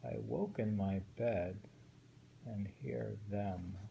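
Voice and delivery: measured recitation of a waka; reading a winter poem aloud to a friend. Shown as a demonstration. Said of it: "This poem is wondering".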